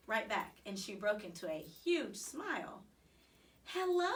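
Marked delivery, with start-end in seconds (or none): 3.6-4.1 higher, louder happy greeting; delighted hello. A narrator's reading. Mother beams at the hamster, bright excited hello. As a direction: greet him with sudden joy. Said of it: "she said".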